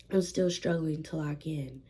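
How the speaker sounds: sore throat voice; a bit hoarse from a sore throat; swollen tonsils voice. Real, not acted. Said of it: "excuse my voice, my throat is being a little weird".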